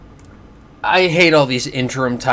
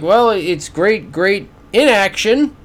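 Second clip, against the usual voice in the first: slow, higher-pitched mocking echo, landing on "inaction"; sarcastic correction; 5 semitones higher, slower than usual. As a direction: draw out "great, great" and punch the IN of "inaction". Sarcastic twist on the commentator's words.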